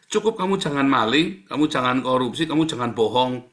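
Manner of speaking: loud preaching. Real, not acted. Preacher loudly telling the congregation what is enough. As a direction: hammer each rule home. Preaching rules at full force.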